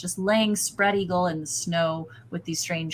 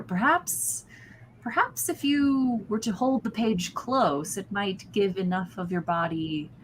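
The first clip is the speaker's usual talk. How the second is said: scheming cultist; 2 semitones higher than usual. Acted. GM voices Barden.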